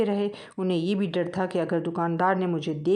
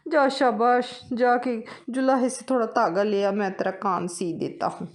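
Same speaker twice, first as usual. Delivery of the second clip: slightly raised fatherly tailor voice; kindly tailor; 4 semitones higher than usual. Acted. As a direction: reassure the little mouse like an uncle.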